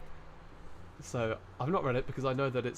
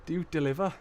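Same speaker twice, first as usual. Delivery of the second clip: higher Geordie question, rising at the end; attempted Geordie accent; 4 semitones higher, faster than usual. Joke's customer asking the takeaway, attempted Geordie accent. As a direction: ask it in a put-on Geordie lilt. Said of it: "put on your Geordie voice now".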